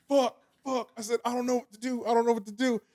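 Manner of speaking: mock panic. Acts out panic on the curb.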